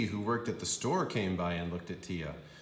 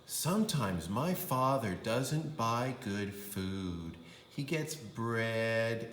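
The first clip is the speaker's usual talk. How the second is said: a hint of a whiny kid; child Tia complaining; 2 semitones higher, slower than usual. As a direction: list the dull foods flatly, then whine up for the sweets. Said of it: "Tia said".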